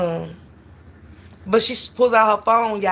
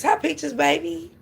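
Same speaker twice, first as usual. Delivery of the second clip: high, sing-song hello to a viewer; bright cooing hello; sweet greeting; 8 semitones higher, slower than usual. Real, not acted. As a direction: coo a welcome to a regular.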